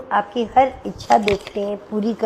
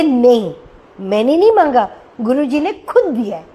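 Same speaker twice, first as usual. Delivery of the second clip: put-on like a little child; 5 dB louder than usual. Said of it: "जैसे एक छोटा बच्चा नहीं कहता".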